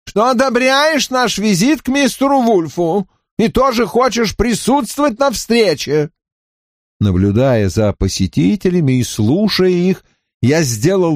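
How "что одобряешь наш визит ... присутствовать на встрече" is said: displeased tone. A narrator's reading. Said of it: "весьма недовольным тоном".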